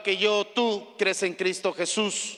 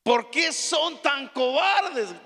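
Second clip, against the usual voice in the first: the Lord rebuking; 4 semitones higher, much slower than usual. Retold or imitated. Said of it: "decía el Señor".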